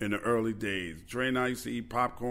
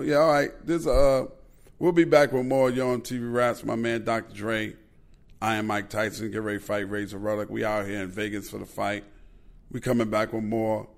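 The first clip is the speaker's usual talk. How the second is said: Mike Tyson impression; 4 dB louder than usual. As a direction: lead to the break as Tyson. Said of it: "So I go".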